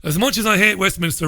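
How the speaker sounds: quick, poor mock Scottish accent; lightly put-on Scottish accent, hurried; bad Scottish accent. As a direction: rattle off the tweet in a half-hearted Scottish accent. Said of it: "that's the worst Scottish accent you've ever heard".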